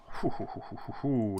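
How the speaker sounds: soft, quick hoo-hoo-hoo; gleeful hooting. Real, not acted. Gamer teasing viewers with a new plan, gleeful soft hooting. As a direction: hoot softly to tease a secret plan.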